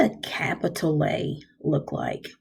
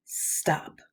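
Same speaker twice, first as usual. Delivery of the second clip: breathy whispered stop, cut short; 10 dB quieter than usual. Shown as a demonstration. Teacher showing kids a period means stop, whispered. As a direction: breathe out Stop and halt dead. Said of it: "A period means that there is a stop".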